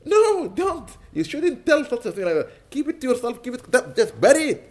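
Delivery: high, insistent scolding; emphatic plea. Real, not acted. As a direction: urge them hard to keep it to themselves. Preacher insists bad dreams stay hidden.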